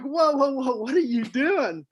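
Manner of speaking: mock alarm at a mess; startled whoa. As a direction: react like you just opened a filthy room. Researchers shocked at manure mess.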